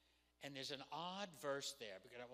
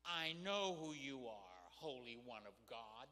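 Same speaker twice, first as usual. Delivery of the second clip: sarcastic; 3 semitones lower than usual. Acted. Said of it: "This is sarcastic".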